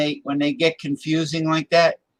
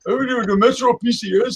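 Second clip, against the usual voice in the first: put-on Indian accent; 7 semitones higher than usual. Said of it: "a bunch of Indians advertising".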